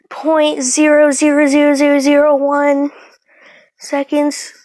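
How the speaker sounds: gleeful loud exaggeration; excited. Real, not acted. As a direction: pile up the zeros with glee. Excited retelling of record.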